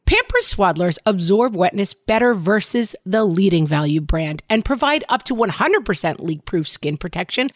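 upbeat sponsor read to a co-host. Acted. Host reading a diaper ad to her co-host, upbeat ad read.

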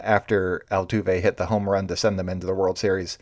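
ordinary talk

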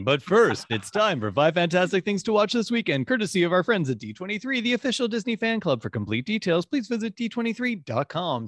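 big booming show announcer; fighting game announcer. Acted. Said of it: "that was a terrible attempt at your announcer voice".

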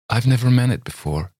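mean every word; earnestly. A narrator's reading. Miss Thayer assures Campbell, earnest. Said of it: "she said quite earnestly".

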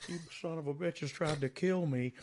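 Terry Funk impression. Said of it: "my favorite impression you do".

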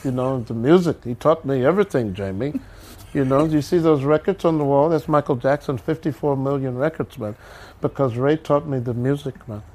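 lightly voiced laid-back elder musician; easygoing producer impersonation; a famous music producer. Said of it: "Quincy was like".

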